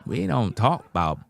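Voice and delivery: a hint of a Southern lady setting him straight; Southern cashier. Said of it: "She said".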